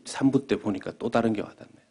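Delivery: ordinary talk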